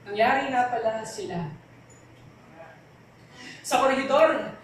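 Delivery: measured, deliberate poem recital with weighted pauses; spoken word poetry. Acted. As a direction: perform it as a heartfelt spoken word piece. (taimtim na pagbigkas ng tula)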